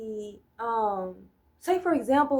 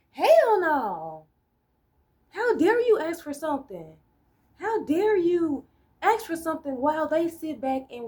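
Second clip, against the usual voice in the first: imitating a scornful group's outrage; mock indignant scolding; 5 semitones higher than usual. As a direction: scold like an offended snob. Voicing other groups scolding.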